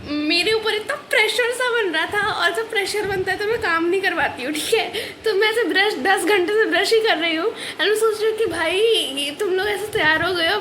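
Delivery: half-laughing, half-teary retelling; laughing through it. Real, not acted. Laughing to viewers about morning rush. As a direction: laughs while telling family about rushing.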